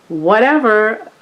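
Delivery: slow, drawn-out airy "whatever". Real, not acted. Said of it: "I sound like a Valley girl".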